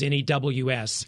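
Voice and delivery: N E W S spelled letter by letter, slowly. Shown as a demonstration. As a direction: spell out N E W S one letter at a time. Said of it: "emphasis on the word news".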